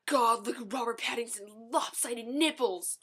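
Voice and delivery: lightly voiced mocking sister. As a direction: imitate a sister sneering at the screen. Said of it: "She was like".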